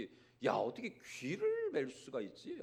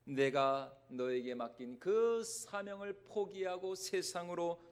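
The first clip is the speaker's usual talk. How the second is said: tender voice of Jesus. Acted. Voicing Jesus' love to Peter.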